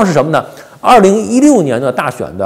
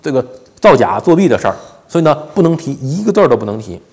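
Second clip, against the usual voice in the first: ordinary delivery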